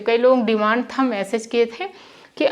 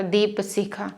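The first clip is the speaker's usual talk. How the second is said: rushed wrong way; 5 semitones lower, 6 dB quieter, slower than usual. Shown as a demonstration. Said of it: "ऐसे नहीं बोला जाता".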